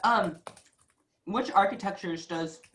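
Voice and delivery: talking with a mouth full; eating chocolate. Real, not acted. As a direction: speak around a bite of chocolate. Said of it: "I just put a piece of chocolate in my mouth".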